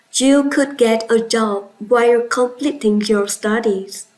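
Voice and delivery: extra emphasis on the word "could"; stress on COULD. Shown as a demonstration. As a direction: lean on "could" to sound certain. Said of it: "extra emphasis or stress on the word could".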